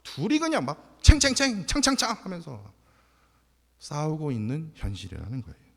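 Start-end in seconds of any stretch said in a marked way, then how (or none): 1.0-2.1 high, ringing clash sounds; high-pitched "clang clang" mimicry; imitated clashing. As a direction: mimic swords clanging back and forth. Imitating two sides clashing.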